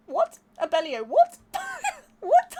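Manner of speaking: loud, high, disbelieving what; shocked what. Real, not acted. Streamer yelps at a shocking book title, high and loud. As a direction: react in real shock to a title.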